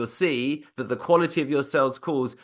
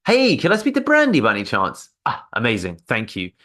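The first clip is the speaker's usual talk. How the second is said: bright, louder sales greeting; upbeat caller demo, louder; energetic caller; 3 dB louder than usual. Shown as a demonstration. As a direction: pump up the energy on the call. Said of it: "different sense of energy".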